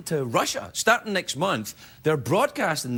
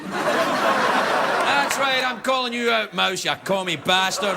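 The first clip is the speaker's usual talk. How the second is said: higher, calling him out with a laugh; mock accusation; 4 semitones higher, slower than usual. Host accuses Mickey Mouse of communism, mock call-out. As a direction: point the finger, half laughing.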